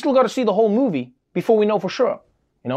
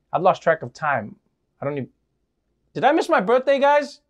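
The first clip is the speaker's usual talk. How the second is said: much higher, giddy and breathless; giddy excitement; 7 semitones higher than usual. Retold or imitated. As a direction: gush like it's your birthday. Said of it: "I'm like".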